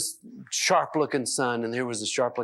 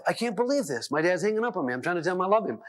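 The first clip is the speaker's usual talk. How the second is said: higher-pitched mock exasperation; lightly acted disbelief, pitched up; incredulous complaint; 5 semitones higher, faster than usual. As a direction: imitate a baffled son venting to his wife. Acted son complaining to his wife.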